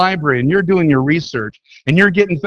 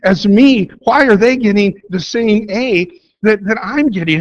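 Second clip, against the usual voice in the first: higher, emphatic, aggrieved complaint; upset protest; 5 semitones higher, 3 dB louder than usual. Acted. Student complaining to professor about classmates' grades, upset. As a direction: protest the unfairness with punched words. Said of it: "you know why you're upset".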